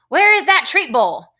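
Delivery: high-pitched storybook shout. Acted. Teacher reads Eugenia demanding something from Baby, shouting high. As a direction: call it out high with strong feeling.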